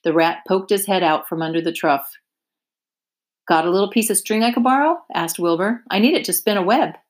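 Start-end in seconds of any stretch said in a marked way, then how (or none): 3.5-7.0 eager pig. Acted. Wilbur asking Templeton.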